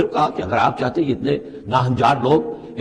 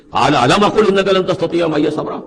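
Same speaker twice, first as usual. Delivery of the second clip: mild scolding; 4 semitones higher, 5 dB louder, faster than usual. Retold or imitated. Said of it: "ذرا ڈانٹ کے انداز میں کہا".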